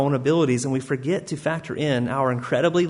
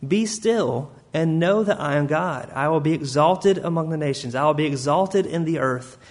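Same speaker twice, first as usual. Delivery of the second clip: gentle reading of God's words. Acted. God's words spoken slowly.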